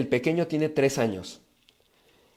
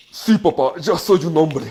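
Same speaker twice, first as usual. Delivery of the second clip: un poco más fuerte, voz de hijo obediente y firme; el chico responde con orgullo, algo más fuerte; hijo orgulloso; 2 semitones higher, 7 dB louder than usual. Pretend. Hijo afirma ser hombre. (hijo que le asegura a su papá que ya es hombre)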